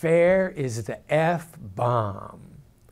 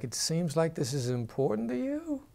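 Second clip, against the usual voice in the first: lifted, slightly softer tune; upward inflection; 3 semitones higher, 4 dB quieter than usual. Shown as a demonstration. Negotiator asks gently with an upward inflection. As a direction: inflect up to sound encouraging. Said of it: "And I'll inflect up".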